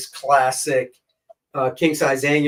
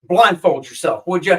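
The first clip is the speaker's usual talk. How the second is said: dumb American tourist; 4 semitones higher than usual. Retold or imitated. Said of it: "I went over there and I said".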